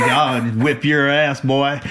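slow, drawn-out mock threat; mock tough threat. Old veteran to younger SEAL at reunion, mock tough threat. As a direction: draw it out like a salty old-timer ribbing a rookie.

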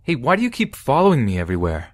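high-pitched confronting cry at moderate volume; mild narrated yell. A narrator's reading. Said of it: "I stood there and yelled".

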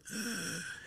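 soft, high breathing-tube sound; short hushed wheeze of an oxygen tube; imitated tube noise. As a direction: imitate air through a tube, quietly. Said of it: "I can hear the tube, like".

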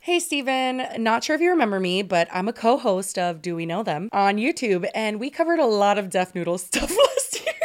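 polite meeting voice, like a work call; phone voice. Shown as a demonstration. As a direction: read it like a business meeting. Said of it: "Can you do it in, like, a phone voice for us?".

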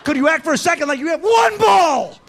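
very high, strained mocking squeal; ridiculing the latte guy in a squeaky voice. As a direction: squeal it like a mocked man. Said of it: "mocking the customer, high shrill voice".

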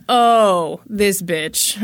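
a hint of drag-queen sass, drawn-out "oh"; lightly put-on drag queen attitude; sassy drag queen. Officer recognizing the suspect, mock drag-queen sass. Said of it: "watched a lot of RuPaul's Drag Race".

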